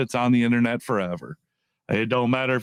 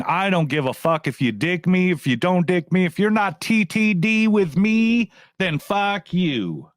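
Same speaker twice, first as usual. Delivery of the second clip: imagined raging; 4 semitones higher than usual. Pretend. Vlogger voicing Hensley raging at critics, rising mock rage. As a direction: act out a defiant rant that swells toward the end. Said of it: "instead of him raging and saying".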